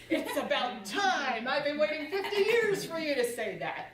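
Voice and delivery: a hint of a patient, relieved Lord; imagined Jesus. Jesus answers her prayer, mildly amused. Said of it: "I see Jesus in heaven going".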